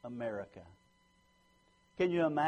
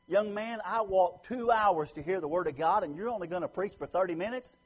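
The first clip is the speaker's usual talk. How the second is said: raised, louder voice of a fed-up churchgoer, slowing on the last words; a lady scolding the young preacher, raised and insistent; scolding old lady; 6 semitones higher, 5 dB louder than usual. Retold or imitated. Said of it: "a lady walked up to him and said".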